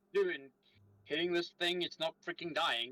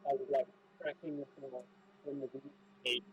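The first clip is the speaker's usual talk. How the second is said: muffled, hard to make out; 2 semitones lower than usual. Real, not acted. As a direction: speak as if through cloth. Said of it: "You're muffled".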